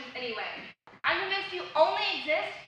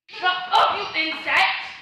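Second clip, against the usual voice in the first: angry snap; 2 semitones higher, 6 dB louder, slower than usual. Acted. Sibling quarrel.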